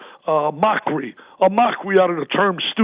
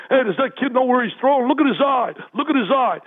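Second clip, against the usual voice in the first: higher-pitched imitation of heckling parents; mock parents' yell; 5 semitones higher than usual. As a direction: mimic a yell from the stands, pitched up. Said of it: "I'm hearing parents yell at me".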